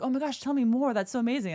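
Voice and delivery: mock gush of someone hearing a great idea; excited. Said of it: "they got excited".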